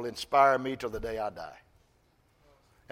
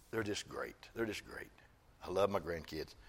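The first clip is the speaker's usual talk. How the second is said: holding back tears; 5 semitones lower, 13 dB quieter than usual. Real, not acted. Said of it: "I'm not gonna get emotional".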